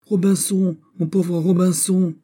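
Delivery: very high wail, drawn out at the end. A narrator's reading. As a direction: wail shrilly like a desperate parrot. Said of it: "plus stridente encore et plus éplorée".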